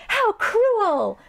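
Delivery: very high, hammed-up outcry; melodramatic princess. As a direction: exclaim like a wronged princess. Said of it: "a princess".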